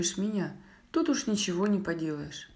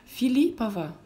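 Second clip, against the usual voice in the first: higher, louder surprised query; questioning echo; 5 semitones higher, 5 dB louder than usual. A narrator's reading. Boy double-checks grandmother's answer, questioning echo. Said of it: "переспросил Дима".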